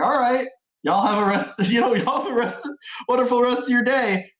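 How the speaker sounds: wishing the strangers well in a terrible Southern drawl; bad Southern drawl. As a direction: send them off like a cheesy cowboy. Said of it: "the worst Southern drawl".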